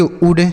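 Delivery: उड with a short oo as in "wood"; short vowel in उड. Shown as a demonstration. Teacher giving children the correct reading, उड with short oo. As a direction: say उड with a brief, unstretched vowel. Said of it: "छोटा ऊ का उच्चारण".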